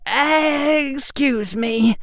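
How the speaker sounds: high, slow, quavering plea; trembling voice. Acted. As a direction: voice shaking on the edge of tears. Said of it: "his voice trembling".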